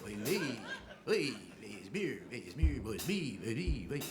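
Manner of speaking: hammed-up Yiddish accent, sing-song; mock Yiddish lament, repeated. Shown as a demonstration. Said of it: "It should be".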